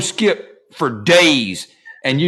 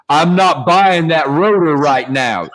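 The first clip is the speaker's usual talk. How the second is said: slow, mildly raised mock loud; retelling a friend's loud refusal, mildly raised; slower than usual. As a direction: drag it out like a firm refusal on the phone. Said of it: "Like, like loud".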